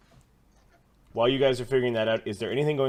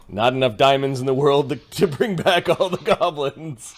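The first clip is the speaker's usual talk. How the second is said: mock lament; 2 semitones higher, 6 dB louder than usual. Game master joking about reviving goblins, loud mock lament. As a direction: build to a hammed-up cry.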